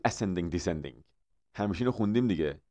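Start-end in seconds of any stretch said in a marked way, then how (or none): 0.1-1.0 Persian-accented "ascending descending". Shown as a demonstration. (با لهجهٔ فارسی)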